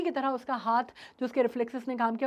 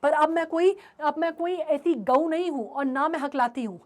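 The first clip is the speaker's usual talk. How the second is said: angry retort. Retold or imitated. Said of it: "उसको बहुत ज़्यादा गुस्सा आ जाता है".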